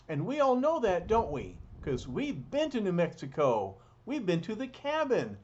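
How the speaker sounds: loud, high, eager telling; excited aside. Real, not acted. Narrator excitedly reminds young listeners of their cabin trip, loud and high.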